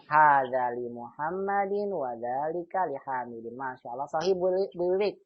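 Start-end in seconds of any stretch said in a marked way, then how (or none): 0.1-3.5 slow model reading. Shown as a demonstration. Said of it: "ingat, jadi kasrah".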